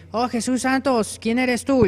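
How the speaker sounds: high, slow mock-shocked voice; comic high-pitched alarm; startled pious piglet. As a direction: gasp it out like a prim, scandalized pig.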